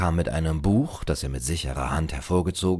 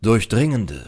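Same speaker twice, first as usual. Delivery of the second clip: plain reading voice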